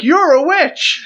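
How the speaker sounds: high, slow, stretched accusing cry; a hammed-up witch-hunt yell; mock shriek. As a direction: shriek it like a panicked villager. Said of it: "I'm like".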